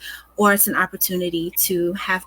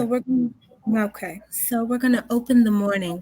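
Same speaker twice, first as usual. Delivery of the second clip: lightly sultry, unintended phone-sex tone; a touch of late-night hotline seduction; 3 semitones higher than usual. Real, not acted. Presenter opening the morning schedule, slightly sultry phone-sex voice. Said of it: "she put the phone sex".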